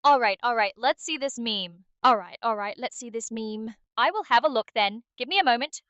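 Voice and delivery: lightly put-on British accent, cheeky; a hint of a cheery British accent. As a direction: play it as a jokey Brit. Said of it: "can British Aria come out".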